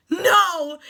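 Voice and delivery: high, loud shriek of disbelief; squealing fangirl no; disbelieving scream. Retold or imitated. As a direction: shriek no like you can't believe it.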